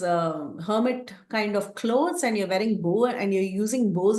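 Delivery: a hint of a menacing demon questioning intruders; demanding demon. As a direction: confront the strangers with suspicion. Demon Viradha challenges the brothers.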